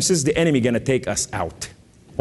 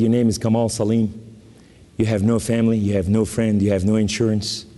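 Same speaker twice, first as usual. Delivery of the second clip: surgeon; 5 semitones lower than usual. Retold or imitated. Voicing the surgeon's grave news.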